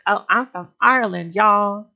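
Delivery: light American twang on a quote; folksy American accent. Retold or imitated. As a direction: play up the American twang a little. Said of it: "annoying American twang".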